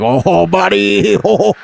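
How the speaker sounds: high, dumb-bro voice; dopey white guy. Retold or imitated. Burlington guy boasts to his buddy in a high bro voice. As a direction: brag like a clueless local bro.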